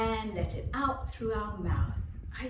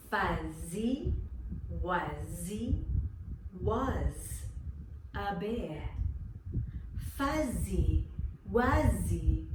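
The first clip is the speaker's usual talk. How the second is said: slow word-by-word twister; slow tongue twister; slower than usual. Shown as a demonstration. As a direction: say each word slowly. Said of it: "Listen to this tongue twister".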